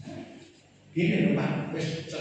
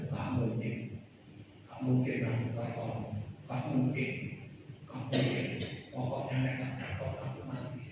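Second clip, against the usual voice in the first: putus asa; 6 dB quieter than usual. Acted. Voicing a despairing believer.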